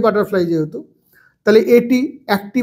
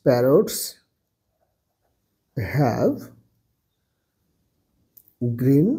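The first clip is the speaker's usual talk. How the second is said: parrots have green feathers, lower and softer, spelling P A R R O T S; slow dictation with spelling; 5 semitones lower, 4 dB quieter, much slower than usual. Shown as a demonstration. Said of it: "তার জন্য এটা হয়ে যাচ্ছে". (বানান করে ধীরে লেখানো)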